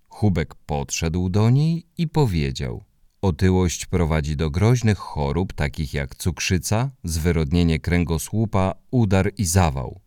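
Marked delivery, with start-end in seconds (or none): 3.2-10.0 1 monotone voice. Acted. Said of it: "monotonnym głosem".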